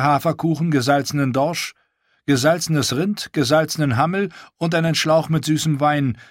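a lightly voiced proud wildling woman; Val's voice.

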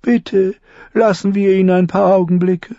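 Tyrion, courteous but sly. Acted. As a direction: speak with polite irony to the lords. Tyrion addresses the council.

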